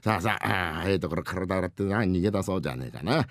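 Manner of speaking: low, soft, fond murmuring; doting father. Acted. Father washes son's back, fond and low. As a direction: admire the child while scrubbing away.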